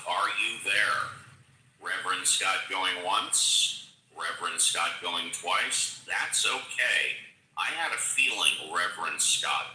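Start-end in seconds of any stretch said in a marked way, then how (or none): 1.8-6.0 slow, drawn-out auction call; auctioneer call. Real, not acted. Auction style calling.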